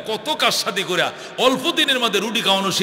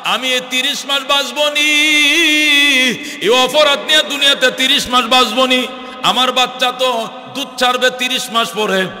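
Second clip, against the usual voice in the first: imitated tearful wail; 4 semitones higher, 4 dB louder than usual. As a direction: wail in protest, acting it in sermon melody. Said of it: "মহিলা গেছে কান্দে".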